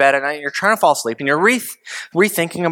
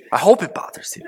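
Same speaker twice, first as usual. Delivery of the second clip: whispered aside; 2 semitones higher than usual. Real, not acted. Preacher's hushed aside.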